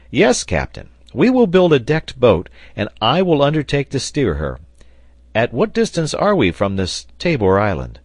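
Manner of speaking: loud, high voice of a keen sailor; volunteer with hearty excitement; eager Pencroft. A narrator's reading.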